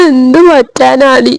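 slow, tearful lament; crying. Acted. Daughter telling her sister she lost the baby, slow and tearful. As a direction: stretch it out through sobs. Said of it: "നീ കരയല്ലേ".

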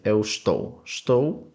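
"estou" clipped to "shtou" with no initial e; native pronunciation. Shown as a demonstration. Teacher shows how Portuguese say estou, native style. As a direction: drop the e: "shtou". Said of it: "як португальці більш говорять".

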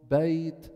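بيت with an easy gliding ay; soft leen. Shown as a demonstration. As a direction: let the ya in بيت glide out without effort. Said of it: "بيخرجوا بسهولة من دون تكلف".

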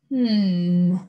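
a beast mulling it over; monster hmm. A narrator's reading. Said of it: "he said".

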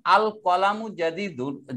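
আল কলামু জাদিদুন slow, opening on a clearly sounded AL; AL pronounced. Shown as a demonstration. Teacher recapping a sentence-initial example, AL pronounced. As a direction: start আল with its hamza, then draw out the phrase. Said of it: "উচ্চারিত হয়েছে আল".

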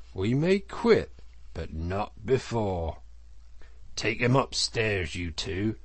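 lightly voiced stern elder, measured and resolute; firm Badger. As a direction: lay down the law, then give orders.

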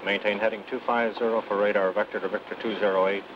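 radio voice. Acted. Departure control over radio.

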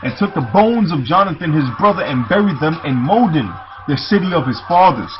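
measured, declaimed Bible reading; scripture reading. Acted. Preacher reading the account of Jonathan's death, scripture reading. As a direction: read the verse out to the congregation.

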